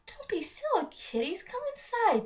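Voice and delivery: high, crackly witch losing patience; shrill-edged hag, impatience showing; impatient witch. A narrator's reading. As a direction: snap the invitation, sweetness wearing thin. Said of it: "losing her patience".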